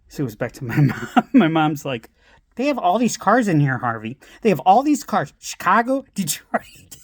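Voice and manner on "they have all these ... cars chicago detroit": higher-pitched, mock-astonished mom; incredulous wife. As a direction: imitate a wife insisting to her husband. Mom incredulous about all the cars.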